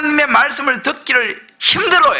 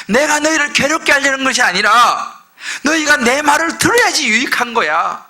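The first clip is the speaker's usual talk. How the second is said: God explaining; 3 semitones higher than usual. Acted. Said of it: "하나님은 뭐라 그래요?".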